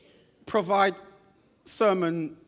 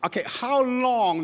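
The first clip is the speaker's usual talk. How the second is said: teasing, higher, louder how long; mock question; 6 semitones higher, 4 dB louder than usual. Preacher mock-quoting his own cheeky question to the researcher. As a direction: play the line as a joke. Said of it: "that was a joke".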